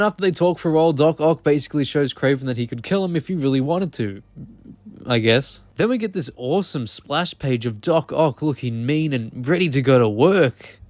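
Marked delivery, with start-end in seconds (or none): 5.8-10.8 mock-enthusiastic praise, swooping in pitch; sarcastic. Real, not acted. Reviewer mocking an ugly splash page, sarcastic. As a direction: talk it up with heavy sarcasm. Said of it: "I'm being sarcastic, by the way".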